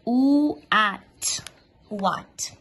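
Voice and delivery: "what" broken into "O", "at", then joined; pronunciation drill. Shown as a demonstration. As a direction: build "what" from its sounds. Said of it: "Pronúncia, let's go to pronunciation".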